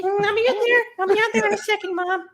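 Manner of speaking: high, loud call back to another room; yelling across the room. Real, not acted. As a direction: shout it to someone out of the room. Answering mom calling from elsewhere.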